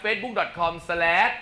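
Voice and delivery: each part of facebook dot com slash said very slowly and deliberately; slow emphatic spelling-out. Shown as a demonstration. Host slowly repeating the band's page address for listeners, very slow and deliberate. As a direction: read the web address slowly, word by word. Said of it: "ย้ำ".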